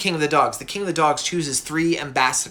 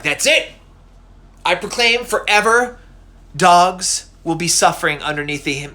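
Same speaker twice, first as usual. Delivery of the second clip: loud, angry godly proclamation; losing it; 3 semitones higher, 5 dB louder than usual. Acted. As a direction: thunder out a furious decree, hammed-up. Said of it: "then Zeus loses it".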